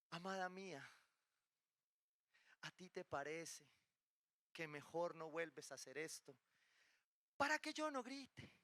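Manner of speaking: exaggeratedly patient, softened loving request; udawana czułość. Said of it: "me respondería así amorosamente".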